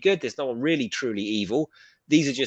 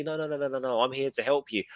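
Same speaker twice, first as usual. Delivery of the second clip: softer, soothing false comfort; mock reassurance; 3 dB quieter than usual. Guessing the officer's play on Bix, softer mock reassurance. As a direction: coax her gently like a fake friend. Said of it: "So I think she's gonna be".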